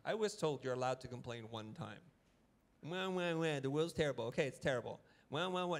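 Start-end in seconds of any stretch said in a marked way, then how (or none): 2.8-4.3 put-on whiny baby crying wah; mock whining. Mocking whiners at design talk, whiny. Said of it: "it just sounds like whining". 5.3-5.8 whiny wah wah, pitched up; mock whining. Mocking a whiner to his audience, whiny wah. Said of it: "Now you're just a whiner".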